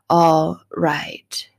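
breathy whisper of a song line. Acted. Preacher whispering the comforting song line. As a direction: whisper it like a lullaby promise.

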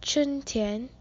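春天 said as chūn tiān in Mandarin, both syllables high and level; 春天 pronounced with clear Mandarin first tones; Mandarin word spring. Shown as a demonstration. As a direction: say 春天 carefully, holding each high flat tone. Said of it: "So today's word is".

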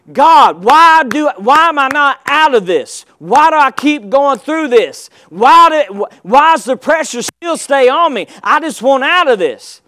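frustrated prayer. Acted. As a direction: cry out to God in frustration. Acted complaining prayer to God.

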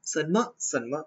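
Fujian-style เซินเม่อ twice, slightly varied in tone; southern Chinese accent on เซินเม่อ, said twice; regional Chinese accent variants. Shown as a demonstration. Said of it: "เล็กๆน้อยๆที่แบบ เออ แตกต่างกันไป".

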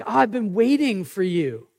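lightly voiced God longing to welcome you; eager God. God welcoming the sinner back, eagerly. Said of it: "But instead, he's like".

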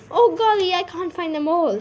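high, loud exclamation of dismay; flustered dismay. A narrator's reading. Jenny can't find all the mice, flustered dismay.

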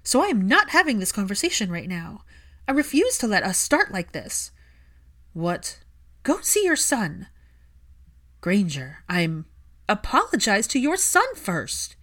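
loud, clipped orders; ordering Draco to go see his son, loud; firm angry command. Acted. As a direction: shut it down and send him off. Hermione ends argument, orders him.

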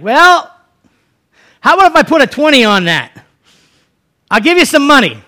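high, loud pitch of a bribe; acted haggler sweetening the deal; wheedling offer. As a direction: coax him with money, voice lifted. Acted bargaining offer to Balaam.

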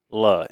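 "Myla" as MY-luh, first syllable like "my"; "Myla" with a long i, falling; correct pronunciation. Shown as a demonstration. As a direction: sound out "Myla" evenly as MY-luh. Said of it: "spelled just like it sounds".

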